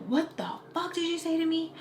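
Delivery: high, thin imitation of an offended cousin; mock outrage. Cousin confronting her after an insult, mock incredulous outrage.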